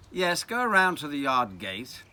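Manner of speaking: lightly posh English instruction. Acted. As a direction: direct the child in a mildly posh accent. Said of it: "in a very posh voice".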